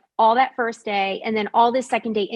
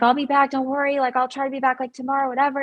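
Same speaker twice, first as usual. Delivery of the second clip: higher, lightly reassuring patter; retold placating excuse; 4 semitones higher, faster than usual. Young woman placating the man so she can leave, higher reassuring voice. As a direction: play down the leaving in a raised, easy voice.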